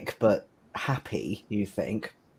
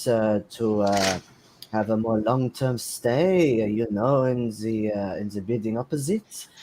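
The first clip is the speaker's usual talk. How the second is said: lightly voiced orderly, slightly higher; staff member; 3 semitones higher than usual. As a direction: address the patient as a concerned staff member, lightly acted. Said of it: "a member of staff saying to somebody".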